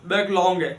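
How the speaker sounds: बैकलॉन्ग said with a nasal ng ending, stretched as back-long; pun on backlog. Shown as a demonstration. Teacher joking to students that a huge backlog is a बैकलॉन्ग. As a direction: stress the pun word बैकलॉन्ग, ending on ng instead of g. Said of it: "तो फिर वो बैकलॉग नहीं है".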